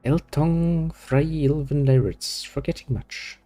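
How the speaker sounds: halting like a creature relearning words; alien creature, musing. Acted.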